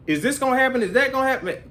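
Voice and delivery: high mock questioning; lightly voiced nosy viewer; curious viewer. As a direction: play the viewer pestering with questions. Imitating a viewer asking.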